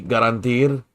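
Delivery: Garantir with the R tried rolled; trying a rolled R. Shown as a demonstration. Learner checks with tutor whether to roll the R, careful try. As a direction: test the R in Garantir. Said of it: "do y'all roll y'all R's".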